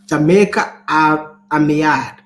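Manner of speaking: slow, loud, halting Jamaican attempt; faltering Jamaican accent. Shown as a demonstration. Speaker tries the phrase and rejects it, faltering Jamaican accent. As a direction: try Jamaican patois slowly and stumble. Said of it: "that doesn't sound".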